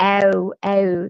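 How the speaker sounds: a drawn-out Philadelphia "Ow, ow"; long ow. Retold or imitated. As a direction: stretch each "ow" long, Philly style. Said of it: "sort of a long ow".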